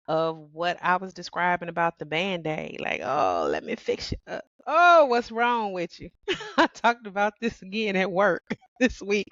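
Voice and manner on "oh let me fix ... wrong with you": sweet, fussing caretaker voice; a hint of a nosy nurse; mock fixer. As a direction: mimic yourself rushing to fix a man. Mocking her fixer self.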